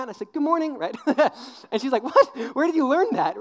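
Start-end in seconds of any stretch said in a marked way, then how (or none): 0.3-0.8 put-on high, loud, eager kid greeting; mock child's cheery hello; imitated four-year-old. Mimics himself as child greeting leader. 2.0-3.4 high, loud, startled question; hammed-up astonishment; mock shocked leader. Mimics shocked children's leader.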